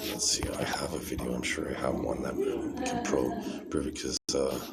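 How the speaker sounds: low, soft murmur to himself; thinking aloud. Real, not acted. Vlogger hunting for a video to prove it, thinking aloud. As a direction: murmur absently while searching.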